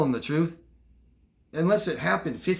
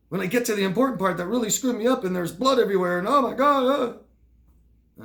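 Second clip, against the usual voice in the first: higher, louder, overdone emotional storytelling; full affect; 8 semitones higher, 4 dB louder than usual. Shown as a demonstration. Showing students a storyteller with real affect, animated. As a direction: pour feeling into the gory part. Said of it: "do they have affect?".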